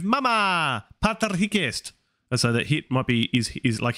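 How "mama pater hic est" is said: daughter voice. Retold or imitated. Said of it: "is going to respond with".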